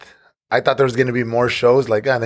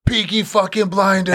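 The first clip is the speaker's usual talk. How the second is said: mock catcall, pitched up; imitated yell; 5 semitones higher than usual. Brewery regulars yelling at him over his hat, mock yell. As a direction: mimic people calling out a nickname. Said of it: "Everybody's yelling that at me".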